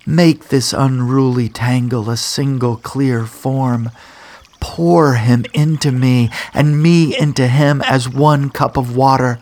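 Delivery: rising, pleading call to the gods; ringing nymph's plea. Acted. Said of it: "Like a bell it rings".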